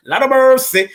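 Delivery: high, loud Jamaican exclamation; a playful Jamaican cry for mercy; Jamaican accent. Retold or imitated. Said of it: "I gotta sound like I'm Jamaican again".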